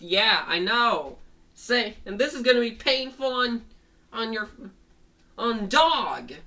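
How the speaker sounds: high, loud mock menace; taunting threat. Fango strangling rabbit, eyeing dog, taunting threat. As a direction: announce the next blow to the victim.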